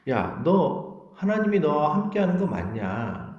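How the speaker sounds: slow, drawn-out taunt; acting out people jeering at a believer; mocking taunt. People taunting a struggling believer about God, mockingly. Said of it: "사람들이 자꾸 조롱한다라는 거예요".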